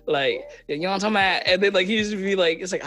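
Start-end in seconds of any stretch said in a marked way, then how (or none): 0.7-1.4 imitated Atlanta street accent. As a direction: put on a touch of Atlanta hood talk. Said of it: "the hood accent that he would hear, the Atlanta accent".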